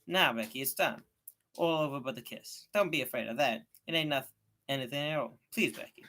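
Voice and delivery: put-on a boy coaxing her, a touch of begging; gently urging her not to be afraid; pleading.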